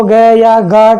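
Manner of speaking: "ग या गा" with a hard g voiced; sounded G mistake. Shown as a demonstration. Teacher shows a wrong reading, "ग या गा" with g pronounced. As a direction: wrongly sound out the silent letter, "ग", "गा". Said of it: "ये भाई गलत हो जाएगा".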